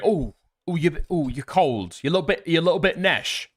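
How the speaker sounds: a hint of a teasing northerner; lightly put-on questioning voice; lightly voiced local. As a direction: imitate someone fussing over the cold. Voices locals asking if he's cold.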